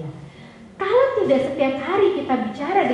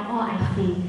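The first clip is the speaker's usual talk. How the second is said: empathetic listening; 3 semitones lower, 4 dB quieter than usual. Retold or imitated. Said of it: "mendengarkan dengan empati".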